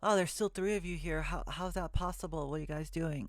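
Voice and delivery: surprised. Real, not acted. Surprised viewers are still watching.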